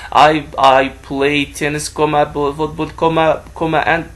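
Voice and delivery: saying the commas out loud, wrongly; mock reading commas aloud. Shown as a demonstration. Teacher showing class the wrong way to speak. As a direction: read the punctuation as words by mistake. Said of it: "don't say like this".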